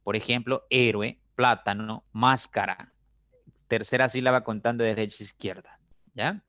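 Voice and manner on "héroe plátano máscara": "héroe", "plátano", "máscara", set apart with HÉ, PLÁ, MÁS strongest; stress on third-last syllable. Shown as a demonstration. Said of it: "las esdrújulas llevan la mayor fuerza de voz".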